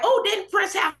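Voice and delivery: high-pitched imitation of admirers; admiring gushing. Everybody admiring a singer's hair, mock gushing.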